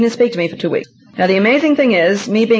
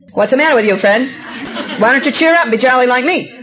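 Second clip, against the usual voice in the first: higher, pushy cheerful badgering; wife pestering her depressed husband, higher and breezy; pushy jolly nagging; 3 semitones higher, faster than usual. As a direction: nag him to cheer up, breezy and insistent. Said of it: "as the sanguine choleric, say to him".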